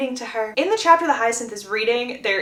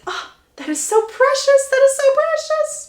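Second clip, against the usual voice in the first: very high, loud cooing; gushing delight; 14 semitones higher, 4 dB louder than usual. Acted. Lady Danbury hears of the proposal, gushing. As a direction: squeal over it like a doting grandmother. Grandmother gushes over the lie.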